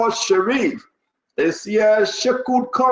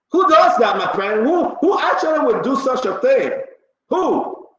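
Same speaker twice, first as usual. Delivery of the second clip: incredulous outrage; 5 semitones higher than usual. Real, not acted. Outraged at Musa leaving.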